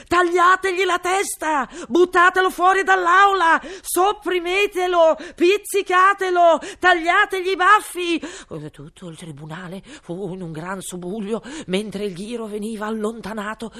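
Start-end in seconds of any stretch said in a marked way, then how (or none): 0.1-8.2 high, loud furious shriek; shrieking queen. A narrator's reading. Queen shrieking at the guards, furious. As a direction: screech the order at the court. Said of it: "strillò la regina".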